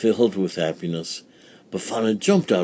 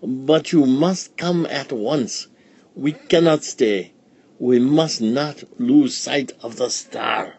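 slow, higher, urgent sage; wise old sage; 5 semitones higher than usual. Acted. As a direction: warn gravely to hurry. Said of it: "said the wise man".

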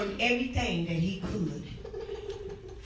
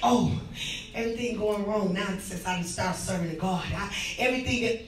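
whiny complainer mimic; 4 semitones lower, 3 dB quieter than usual. Mocking a complaining churchgoer.

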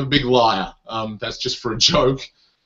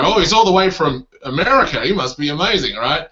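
higher at first, mock awe; imitated impressed audience; 3 semitones higher than usual. Australian audience sizing up an American comedian, mock awe. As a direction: play a lightly impressed crowd. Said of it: "and they go".

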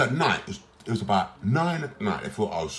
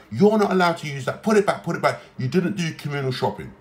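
mock staff shout; 4 semitones higher than usual. Patient imitating staff scolding him in the kitchen, mock shout. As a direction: bark it like the deputy ward manager. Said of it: "will start shouting".

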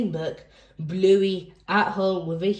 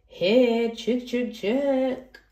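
higher sing-song calling; mock chicken call; 5 semitones higher, much slower than usual. Reader voicing a character calling chickens, higher playful call.

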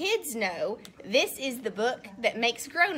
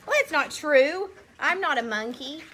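indignant protest; 4 semitones higher, 4 dB louder than usual. Acted. Reader protests the text.

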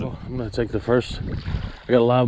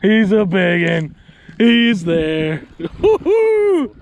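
excited; 6 semitones higher, 5 dB louder, much slower than usual. Real, not acted. Hooking a big redfish.

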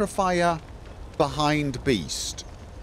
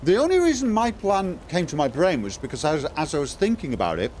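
mouth full. Real, not acted. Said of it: "sounds like I got a mouthful of food".

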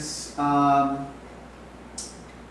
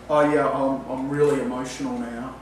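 a hollow claim of emotion said dead level; deadpan unconvincing; 4 semitones lower than usual. Shown as a demonstration. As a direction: say you're emotional without showing any. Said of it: "if I speak like that, you're not gonna really believe me".

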